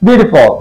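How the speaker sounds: বিউটিফুল ending "fol", not "ful"; correct pronunciation. Shown as a demonstration. Teacher correcting students' বিউটিফুল to "fol". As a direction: say বিউটিফুল with the last syllable "fol". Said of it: "ফল, not ফুল".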